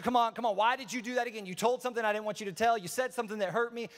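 mildly hammed-up telling-off; mock yelling. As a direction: complain like an upset friend, half-yelled. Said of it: "they're yelling at you".

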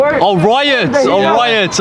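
penny drops, delighted; oh, got it, riots; sudden realization. Real, not acted. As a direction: pitch jumps up on oh. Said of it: "Ra-, riots".

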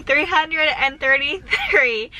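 drawn out, each syllable placed slowly; slowly spelling out a long number; slow careful counting. Real, not acted. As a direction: stretch out "thirty-three" as if it's a mouthful. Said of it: "that took me a while to say".

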